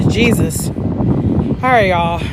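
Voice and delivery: breathy, winded exclaim; catching breath while talking. Real, not acted. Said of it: "I'm out of breath".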